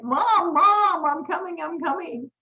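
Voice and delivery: the little dog calling out to his owner, high and eager; voicing the dog. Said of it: "He's running after me like".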